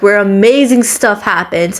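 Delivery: lightly sarcastic gushing; mock praise, only slightly put on. Real, not acted. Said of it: "I'm being sarcastic".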